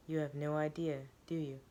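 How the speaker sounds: cold, sharp and soft; icy. Acted. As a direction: say it coldly, cutting. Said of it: "Her voice is ice".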